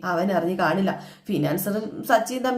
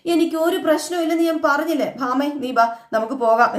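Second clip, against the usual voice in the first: higher and louder, insistent denial; angry denial; 5 semitones higher, 4 dB louder than usual. Retold or imitated. Wife snapping at husband that nothing is wrong, raised and angry. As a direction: cut him off and storm away. Wife angrily denies any problem.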